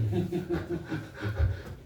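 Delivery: soft laugh at himself; a short rueful chuckle. Real, not acted. Preacher laughing at his own tiredness with the meeting.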